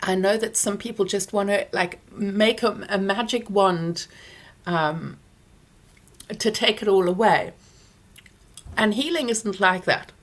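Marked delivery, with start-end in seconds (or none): 2.9-10.1 talking around a lozenge; words shaped around a lozenge in the mouth; mouth full. Real, not acted. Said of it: "you've got a lozenge in my mouth".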